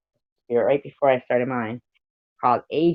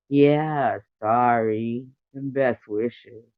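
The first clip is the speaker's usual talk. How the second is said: drawn-out, lightly voiced stoner; 3 dB louder, much slower than usual. Shown as a demonstration. Streamer demonstrating a voice for Lemon, stoner. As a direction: stretch it out like a mild stoner. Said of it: "I have to do stoner sound".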